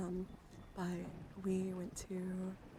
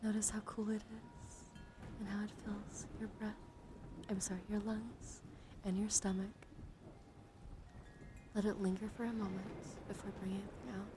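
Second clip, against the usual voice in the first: hushed, unhurried relaxation voice; guided breathing meditation. Acted. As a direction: guide them gently through each breath. Leads a breathing exercise.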